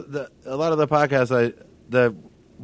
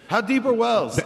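high, plaintive call for help; fallen-in-a-well voice; 9 semitones higher, slower than usual. Pretend. Trapped at the bottom pleading for rope, high calling voice. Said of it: "at the bottom of the well".

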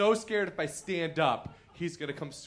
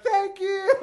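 very high, loud cartoon cat; high South Park-style cat squeal; grateful cat voice; 8 dB louder than usual. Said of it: "my cat's kinda like".

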